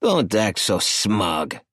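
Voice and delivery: lightly voiced boss, slow and smug; slow smug drawl. Boss Emilio puffing a cigar as he taunts, slow. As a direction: take your time, cigar in mouth. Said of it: "puffing on his cigar".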